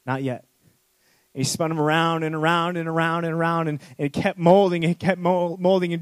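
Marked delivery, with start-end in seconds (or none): 0.1-0.4 soft, calm and unhurried; firm but tender refusal; gentle potter. Acted. Potter gently refusing the suffering clay, soft and calm. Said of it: "with his compassion and said".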